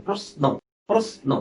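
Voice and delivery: প্রশ্ন said as "pros-no", with a hissing English s; English-S pronunciation. Shown as a demonstration. Teacher showing students প্রশ্ন with an English s sound. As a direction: say প্রশ্ন with s, not sh. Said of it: "এস এর মতো".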